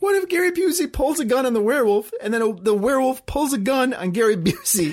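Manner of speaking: words broken by laughter. Describing the Gary Busey werewolf showdown: laughing while talking. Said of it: "I can't even talk about it without laughing".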